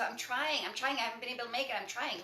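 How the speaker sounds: hurried, self-reproaching repetition of "trying"; self-critical trying. Retold or imitated. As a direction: rush the "I'm trying" like beating yourself up. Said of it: "You're beating".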